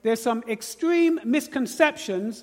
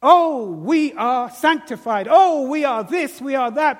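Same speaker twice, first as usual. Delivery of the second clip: mock pious boast; 3 semitones higher, 5 dB louder than usual. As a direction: ham up a smug saint proclaiming loudly. Mocking self-righteous poor Christians.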